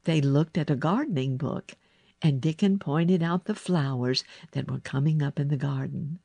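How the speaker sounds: ordinary delivery, nothing marked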